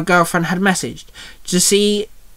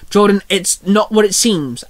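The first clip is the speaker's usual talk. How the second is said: higher, anxious excuse; mild panic; 4 semitones higher than usual. Acted. Allison caught cheating by Jordan, mildly panicked. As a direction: plead with a touch of panic. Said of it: "Alice said in a panic".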